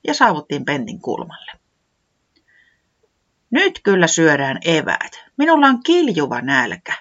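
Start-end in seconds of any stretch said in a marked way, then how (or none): 3.5-6.9 lightly voiced hungry säämies. Säämies announcing lunch time, lightly raised voice. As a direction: declare it, hungry and keen. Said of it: "säämies ilmoitti".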